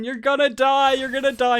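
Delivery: put-on high, insistent kid-brother taunt; retold taunting. Ten-year-old brother scaring his nervous sister, high taunting.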